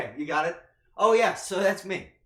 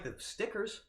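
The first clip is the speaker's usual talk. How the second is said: normal talking voice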